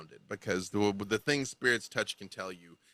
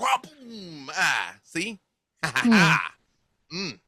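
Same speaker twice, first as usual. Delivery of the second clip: put-on high kid making punch noises; proud child voice, pitched up; eight-year-old child; 7 semitones higher, 6 dB louder, slower than usual. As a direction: show off with boom and a gloating laugh. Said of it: "But she's like".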